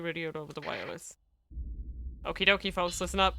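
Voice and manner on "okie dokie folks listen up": put-on childish tone. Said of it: "The childish tone was back in his voice".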